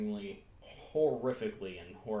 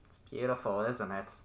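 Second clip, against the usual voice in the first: distorted sinister voice over an intercom; menacing villain savouring his work. Acted. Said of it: "you hear a very distorted, uh, sinister voice".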